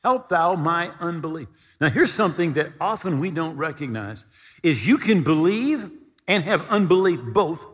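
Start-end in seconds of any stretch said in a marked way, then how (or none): 0.0-1.5 pleading with tears. Acted. Father crying out to Jesus for his son, tearful plea. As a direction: beg the Lord through tears, slowly. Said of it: "cried out and said with tears".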